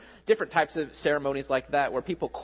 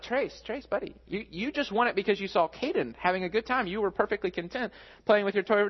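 gentle dad reasoning; 5 semitones higher than usual. Retold or imitated. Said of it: "I'm like".

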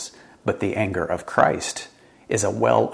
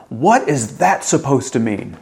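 raised, slow, offended demand; barked angry question; 4 semitones higher, 5 dB louder than usual. Acted. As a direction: bark it as an angry retort. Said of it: "these questions that we bark out".

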